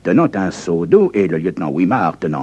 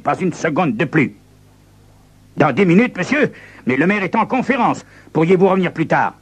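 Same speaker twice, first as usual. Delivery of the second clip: tense exchange; 10 semitones higher, faster than usual. Acted. Lieutenant and visitor argue.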